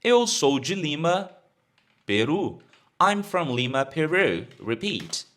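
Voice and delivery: usual speaking voice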